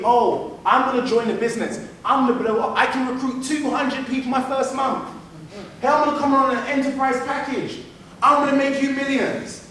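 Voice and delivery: lightly voiced boaster making big promises; big-talking recruit. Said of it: "how many of us experience this number nine".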